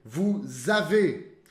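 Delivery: Nous avons with a z liaison, very slow. Shown as a demonstration. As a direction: link nous avons with a buzzing z. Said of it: "Som de Z". (ligação com som de Z em nous avons, bem devagar)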